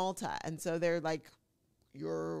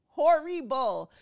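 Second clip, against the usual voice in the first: slow, loud, higher and drawn out; appalled; 7 semitones higher, 9 dB louder, much slower than usual. Real, not acted. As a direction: stretch the word in disgust. Repeats outrage, drawn out.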